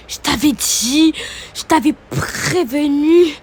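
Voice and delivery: slow, loud, taunting yell; acted shout. Angry housemate yells at her rival while ripping her clothes. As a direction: hammer each word as she rips the clothes.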